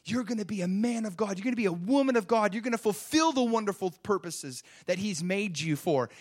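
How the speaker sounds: heartfelt, building proclamation; blessing the baby. Retold or imitated. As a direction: declare a joyful blessing on your baby. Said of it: "I just say things like this".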